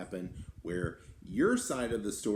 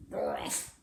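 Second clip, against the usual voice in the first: mock growl. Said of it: "She growled at me".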